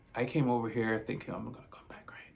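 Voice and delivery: choked whisper close to tears; real emotion overtaking the story. Real, not acted. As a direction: barely get the words out, voice breaking. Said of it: "let me catch myself".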